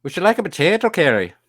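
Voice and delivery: loud, high hammed-up Irish lilt; a cheerful stage Irish voice; Irish accent. Shown as a demonstration. Friend shows off her Irish accent on request. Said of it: "I can do an Irish one".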